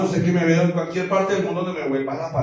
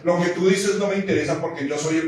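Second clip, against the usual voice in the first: self-important prophet; 3 semitones lower, 6 dB quieter, faster than usual. Acted. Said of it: "Y yo que ando entre profetas".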